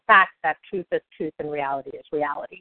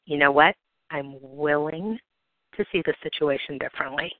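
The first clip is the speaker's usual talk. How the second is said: calm surrender; 3 semitones lower than usual. Shown as a demonstration. Calm surrender after angry rant.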